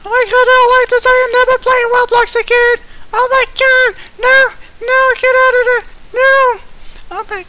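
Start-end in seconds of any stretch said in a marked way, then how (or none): 0.0-6.4 loud fast alarmed rant; freaking out at the game; panicked. Real, not acted. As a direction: rush it out, louder.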